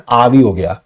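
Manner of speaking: lightly Punjabi "आ भी हो गया", with "आ" for "ये"; Punjabi phrasing. Shown as a demonstration. Teacher showing students his family's speech, Punjabi "आ भी हो गया". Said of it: "हम पंजाबी में ऐसे बोलते हैं".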